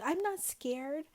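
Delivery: a hint of imitated defiance; mock defiant denial. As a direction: drag out the denial, mock-proud. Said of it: "it's like".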